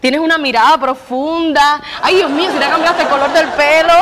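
flirty put-on Mexican accent; wife sweet-talking her husband in a fake Mexican accent. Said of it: "¿Y por qué sigues hablando así?". (acento mexicano fingido, coqueta)

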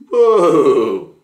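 loud, high startled whoa; real surprise at the double meaning; surprised whoa. Real, not acted. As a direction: blurt out a big whoa, caught off guard. Reacting to his own joke.

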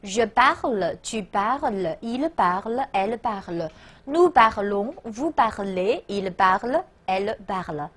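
even, chant-like run through the French forms; drill recitation. Shown as a demonstration. Teacher counting students in to recite together, steady drill recitation. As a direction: recite the conjugation steadily, pair by pair. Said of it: "好，预备".

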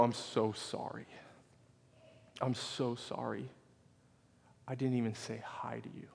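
retold apology, dropping toward a whisper; hushed apology. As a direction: say sorry gently, with long pauses. Acted apology to the crying lady.

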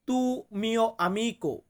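tu mio amico drawn out very slowly; slow teaching model. Shown as a demonstration. Teacher modelling tu mio amico slowly for viewers. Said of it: "Italian ভাষাতে বলতে হবে".

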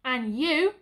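loud sharp call to one soldier; sudden parade-ground shout; booming sergeant. Acted. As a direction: boom it out across the yard. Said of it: "came that booming voice again".

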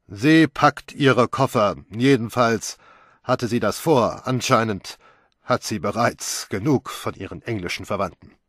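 enjoy the news a little too much; gloating. Acted. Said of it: "schadenfrohe Genugtuung".

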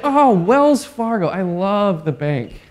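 imitating a stranger's gushing over the bank; mock gushing. Mocking people who mix up Fargo.

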